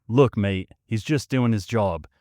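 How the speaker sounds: hammed-up Aussie bloke telling a guy to calm down; a mock Australian accent, rising toward the end. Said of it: "I'm not gonna keep doing that".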